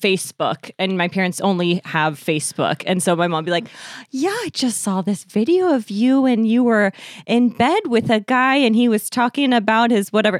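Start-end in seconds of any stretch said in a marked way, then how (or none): 4.1-10.4 mom imitation in a Wisconsin accent; higher, put-on Midwestern Wisconsin mom voice. Mom reporting an embarrassing video to her daughter, Wisconsin accent. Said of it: "I don't know why I put on that accent".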